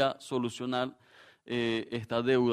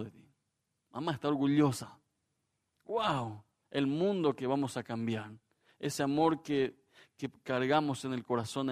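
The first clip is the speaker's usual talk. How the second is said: put-on softer, sincere parent praising a child; tender affirmation; 3 dB quieter than usual. Shown as a demonstration. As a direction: model how to affirm someone. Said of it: "Aprenda a afirmar".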